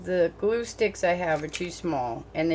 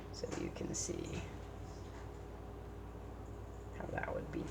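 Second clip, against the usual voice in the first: whisper; 16 dB quieter than usual. Real, not acted. Trails off to an aside.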